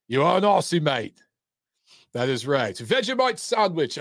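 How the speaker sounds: clumsy mock Australian accent, playful; hammy Aussie voice, tongue in cheek; bad Aussie accent. Host teasing Australian viewer in bad Aussie accent. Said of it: "my accent's horrible".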